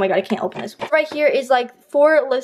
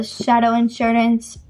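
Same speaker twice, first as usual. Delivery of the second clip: "Shadow Insurance" said slowly in an odd, unplaceable foreign accent; slow "Shadow Insurance" in an unidentifiable accent; weird accent; slower than usual. Shown as a demonstration. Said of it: "I don't know what language or accent that was".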